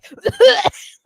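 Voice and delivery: high loud burst of laughter. Real, not acted. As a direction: crack up out loud. Bursts out laughing at Jeff story.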